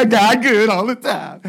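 hammed-up loud church cheer; put-on hallelujah holler; mock praise shout. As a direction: belt it out like a showy churchgoer. Mimicking busy smiling churchgoer's praise.

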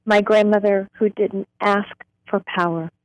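slow, deliberate reading with long pauses; poetry reading. Acted. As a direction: let each image land before moving on. Reads her poem aloud.

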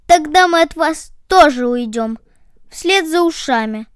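threatening. Acted. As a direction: warn them you are leaving. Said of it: "пригрозили ноги". (с угрозой)

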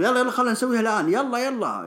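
high, urgent goading shout; imitated yelling. Big Show goading Randy Orton to fight now, imitated yelling. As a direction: act out an impatient challenger calling him on. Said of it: "وراح يصرخ عليه يقول".

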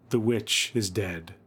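slow, measured solemn announcement; intoning. A narrator's reading. Husband opening the witch game, intoning slowly. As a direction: intone it like a spooky game ritual. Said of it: "intoned the husband".

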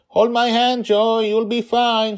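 high, loud, slow shout of comfort; child reassuring her father over the wind. Acted. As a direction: call out to calm him. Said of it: "she shouted".

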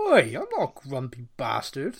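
loud indignant protest; playfully affronted outburst; mock indignant. Real, not acted. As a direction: object loudly to a teasing insult. Objects to question calling him grumpy.

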